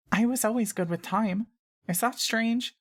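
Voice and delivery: put-on a small girl asking shyly. A narrator's reading. Maya Lee answers.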